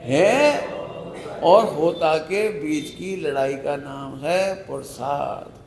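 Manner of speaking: slow, spaced-out repetition for the listeners; deliberate teaching pace, each phrase drawn out; slow repeat. Shown as a demonstration. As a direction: repeat it slowly, word by word. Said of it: "क्या बोल दिया मैंने?".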